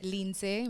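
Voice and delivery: Lindsay said the Haitian way, rising on "say"; native pronunciation. Shown as a demonstration. Guest confirms her name for host, Lindsay in Haitian pronunciation. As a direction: say Lindsay as "leen-SAY". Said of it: "My name is pronounced".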